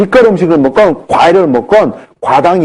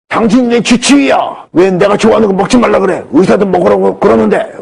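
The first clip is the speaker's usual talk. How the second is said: indignant retort; 7 semitones higher than usual. Retold or imitated. Patient angrily rejecting the advice.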